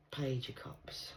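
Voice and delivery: slow whisper under the breath. Real, not acted. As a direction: murmur the card softly, almost voiceless. Reading cards to herself.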